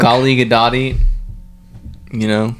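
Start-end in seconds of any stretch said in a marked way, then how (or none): 0.0-1.0 "Golly Gadoti" with added ee endings; sing-song nonsense version, "GOLL-ee guh-DOT-ee"; playfully mangle the name into "Golly Gadoti"; joke mispronunciation. Pretend. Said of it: "they pronounce it different every".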